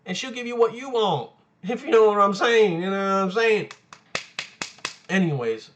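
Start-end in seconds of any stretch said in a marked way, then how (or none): 1.6-3.7 cheeky, amused insinuation; laughing innuendo. Real, not acted. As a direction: laugh into a suggestive joke.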